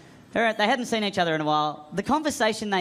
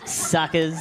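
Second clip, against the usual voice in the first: smug gloat; 3 semitones lower than usual. Retold or imitated. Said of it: "Like I got away with something".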